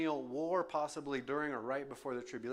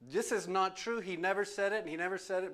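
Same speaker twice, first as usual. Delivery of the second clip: scolding; 3 semitones higher than usual. Retold or imitated. Preacher scolding the chatbot for false quotes, firm rebuke. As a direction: go after it, insisting. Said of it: "I kinda went after him".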